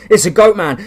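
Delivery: high loud panicked scream. Acted. Fleeing cultists scream at the monster. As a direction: shriek it as you flee.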